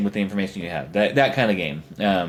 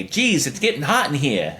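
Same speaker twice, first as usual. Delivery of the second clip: light Brooklyn wisecrack, a bit higher; Brooklyn accent; 4 semitones higher than usual. Acted. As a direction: deliver it with a touch of Brooklyn. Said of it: "a Brooklyn accent".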